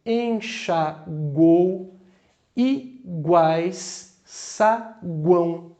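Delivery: "Enxagou", "iguais", "saguão" read slowly, each glide kept light; slow example words. Shown as a demonstration. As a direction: lay out each triphthong slowly for the class. (palavras ditas devagar, semivogais discretas e vogal marcante)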